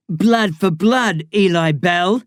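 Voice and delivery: very slow, solemn intoning; solemn oath. A narrator's reading. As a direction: intone the warrior's vow. Ritual oath repeated.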